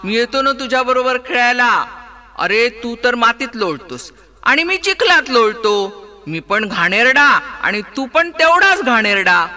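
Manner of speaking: put-on the pig cheering up the boy; lightly voiced hearty pig; cheerful pig. Pig character speaks.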